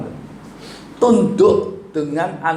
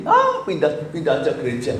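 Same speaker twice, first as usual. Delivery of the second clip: mock flippant quitter. Congregant quits church, mocked.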